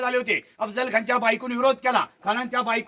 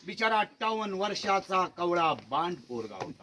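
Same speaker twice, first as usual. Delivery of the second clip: mock pity; 4 semitones lower, 7 dB quieter than usual. Ironic jab at 58-year-old Khan.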